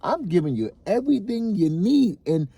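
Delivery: exasperated father's rant; getting pissed. Real, not acted. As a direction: defend yourself, rising annoyance. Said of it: "I'm starting to get pissed".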